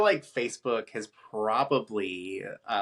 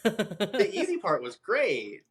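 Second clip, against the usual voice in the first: laughing; 10 semitones higher, much slower than usual. Real, not acted. Laughs while repeating the phrase.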